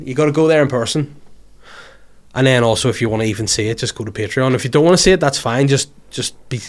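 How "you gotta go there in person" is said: emphatic. Shown as a demonstration. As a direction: sell it to the listeners with a push.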